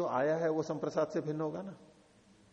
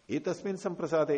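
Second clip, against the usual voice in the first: एतस्मिन् संप्रसादे lifted higher and louder; stressed key words; 5 semitones higher, 4 dB louder than usual. Shown as a demonstration. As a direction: punch एतस्मिन् संप्रसादे up high. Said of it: "teacher stresses key words". (एतस्मिन् संप्रसादे पर ज़ोर)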